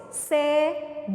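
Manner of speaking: cebolinha with each syllable clearly mouthed; articulated syllables. Shown as a demonstration. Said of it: "Só mais uma vez".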